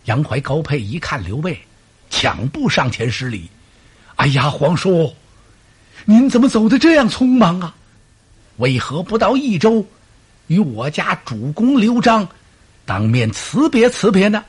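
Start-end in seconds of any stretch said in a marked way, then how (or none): 4.2-14.4 high, loud wheedling officer's voice; butter up the uncle, pitched up high; fawning officer. Acted. Generals feign dismay at departure.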